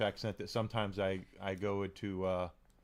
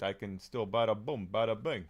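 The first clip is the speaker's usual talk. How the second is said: New York accent. Shown as a demonstration. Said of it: "my New York accent".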